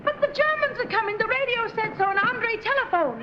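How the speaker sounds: high-pitched, rushed alarm; panicky. Acted. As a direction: blurt out the news in a fluster. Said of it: "This Quayle in a panic?".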